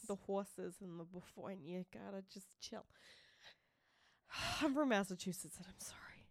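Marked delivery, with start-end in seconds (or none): 0.1-2.8 echoing her own Boston slip; Boston accent. Shown as a demonstration. Host owning up to her slip, Boston accent. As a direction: repeat the words with Boston vowels. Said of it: "sorry for the accent".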